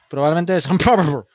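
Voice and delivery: Scottish-accented documentary voice; Glasgow accent. Shown as a demonstration. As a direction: read it like a Glasgow narrator. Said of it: "Y con tono de Glasgow".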